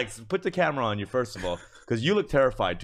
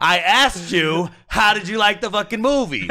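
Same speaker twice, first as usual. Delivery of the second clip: loud, high-pitched indignant demand; slow, hard-hit words, re-enacting a blow-up; retold furious outburst; 10 semitones higher, 10 dB louder than usual. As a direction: yell it like an outraged retelling. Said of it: "And I fucking got furious".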